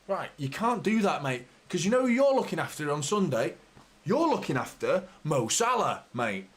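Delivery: firm, pointed telling-off; stern scolding. Real, not acted. Fan scolding his defender through the screen. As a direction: warn the defender what's coming Sunday.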